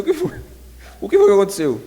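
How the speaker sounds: voz de mãe aguda e aflita; mãe preocupada. Retold or imitated. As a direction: perguntar como mãe assustada. Mãe pergunta ao filho. (mãe aflita perguntando ao filho ferido)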